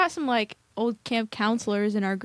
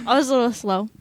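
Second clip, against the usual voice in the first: laughing. Real, not acted. Laughing at a slow guess.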